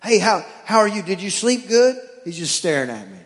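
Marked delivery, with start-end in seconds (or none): 0.0-2.0 dad chatting up his dog; talking to a dog. Acted. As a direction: coo at the dog like a baby. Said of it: "conversation like the dogs won't talk back".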